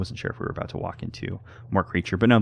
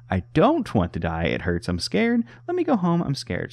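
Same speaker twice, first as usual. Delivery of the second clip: high, pleading, scared little voice; frightened creature's plea; 4 semitones higher, 4 dB louder than usual. Acted. Game creature begging for its life, in fear. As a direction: beg not to die, whimpering in fear. Voicing the creature's dying log.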